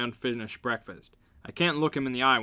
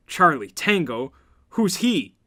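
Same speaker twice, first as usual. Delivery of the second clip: high, loud confused question; baffled; 4 semitones higher, 6 dB louder, slower than usual. Real, not acted. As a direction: ask it in disbelief.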